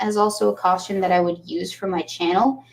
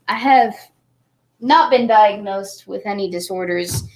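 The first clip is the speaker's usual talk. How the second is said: normal talking voice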